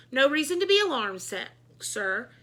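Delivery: high, loud, hasty calm; nervous reassurance. A narrator's reading. Principal reassuring his boss, high and nervous. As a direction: try to sound in control. Klutz calming the board president.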